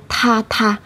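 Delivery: "tha tha" with a puff of air on each th; strong breath release on both "tha"; aspirated th. Shown as a demonstration. Teacher shows learners the sound, aspirated "tha tha". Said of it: "Như vậy nha".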